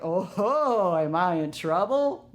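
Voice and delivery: playful mock-worried question; joking. Worker kidding with assistant manager before the meeting, joking. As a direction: tease with a drawn-out "oh, ho".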